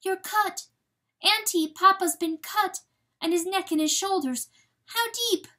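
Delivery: put-on high, loud child-like fawn voice; alarmed fawn. A narrator's reading. Fawn finding Papa is cut, high alarmed cry. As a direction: cry out in high-pitched worry. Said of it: "the fawn gave a tiny cry".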